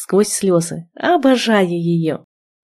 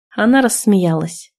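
ordinary delivery

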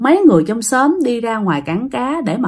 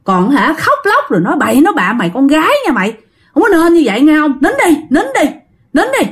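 rising from scolding to a much higher "nín đi"; scolding lecture; 3 semitones higher than usual. Retold or imitated. Neighbors lecture Aunt Tám at home, building to a high-pitched hushing. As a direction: lecture her, then higher and higher as you order her to hush. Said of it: "mấy người trong xóm còn la thêm".

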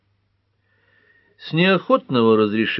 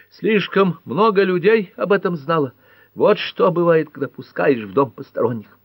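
high, loud accusing shout; 9 semitones higher, 3 dB louder than usual. A narrator's reading. Nora yells at Pat, high loud accusation. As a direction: lash out at the outsider, pitched high. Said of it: "она закричала на Пэт".

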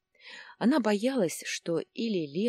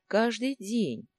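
каждый said higher and slowly, hammered; stress on каждый; 6 semitones higher, slower than usual. Shown as a demonstration. Husband stressing to Lariса how often his wife drinks, emphatic. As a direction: drag out каждый день with weight. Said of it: "И каждый день".

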